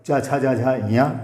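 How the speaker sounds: च, छ, ज, झ, ञ sounded separately from the palate; sounding out letters. Shown as a demonstration. Teacher reciting the च row for students, letter by letter. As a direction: list च, छ, ज, झ, ञ one by one. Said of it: "इनका उच्चारण स्थान तालु से होता है".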